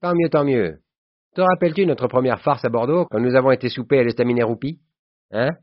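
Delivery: high, loud, delighted reminiscing; hearty, satisfied. A narrator's reading. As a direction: launch gleefully into a shared old prank. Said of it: "Il se mit à rire d'un bon rire satisfait". (réjoui, voix haute et forte)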